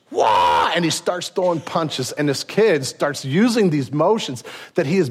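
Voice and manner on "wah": sharp martial-arts shout; karate yell. Retold or imitated. Daniel throws a punch, sharp karate shout. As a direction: let out a fighting kiai. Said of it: "And he goes".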